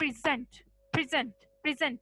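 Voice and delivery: "present" stressed on the second syllable, pre-ZENT; stress moved onto S. Shown as a demonstration. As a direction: lean on the S of "present", as the verb. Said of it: "वो एस के ऊपर shift करती हूँ". ("present" में दूसरे syllable पर ज़ोर, प्रि-ज़ेंट)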